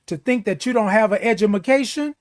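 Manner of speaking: edumacation said as a deliberate joke mispronunciation of education; mock edumacation. Shown as a demonstration. Host mocks people who assume viewers lack schooling, jokey edumacation. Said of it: "I said edumacation".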